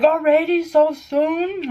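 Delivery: surprised mom. Retold or imitated. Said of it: "she's like".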